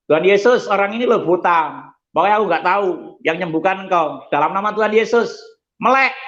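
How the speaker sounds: high, pleading cry to Jesus, rising to a command; fervent prayer. Retold or imitated. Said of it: "Saya ngomong gitu".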